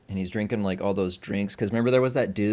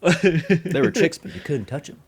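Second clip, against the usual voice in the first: hammed-up drunk castaway; 7 semitones higher, 6 dB louder than usual. Repeating the funny line.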